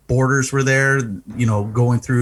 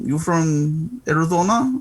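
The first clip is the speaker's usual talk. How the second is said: slow, higher questioning officer voice; mock border agent; 4 semitones higher than usual. Driver imitates border guard quizzing him, slow and suspicious. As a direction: drawl it out like a suspicious checkpoint guard.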